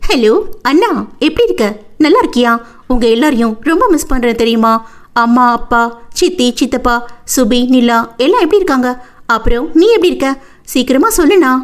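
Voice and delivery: eager little sister in a lifted voice; cheerful, excited greeting; happy, excited. Acted. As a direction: gush questions at your brother on the phone. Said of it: "மூச்சு விடாமல் உற்சாகமாக பேச".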